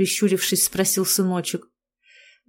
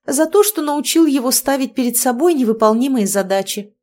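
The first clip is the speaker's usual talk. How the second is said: higher-pitched, slyly teasing retort; sly smirk; 5 semitones higher, 4 dB louder than usual. A narrator's reading. Wife teases husband about his lessons, slyly. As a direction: needle him with a smirk. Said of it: "коварно усмехнулась я".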